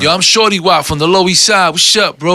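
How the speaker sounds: a lightly voiced friendly stranger introducing himself; stranger's voice.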